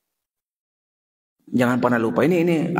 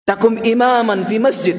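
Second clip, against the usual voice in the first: mother scolding; 5 semitones higher than usual. Retold or imitated. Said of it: "sumpah-sumpai anaknya".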